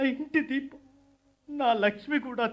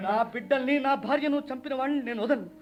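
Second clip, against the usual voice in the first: vengeful vow. Acted. Widower vows revenge.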